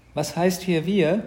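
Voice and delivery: object, leaning on WIR; drawn-out, miffed boy; indignant brother. Acted.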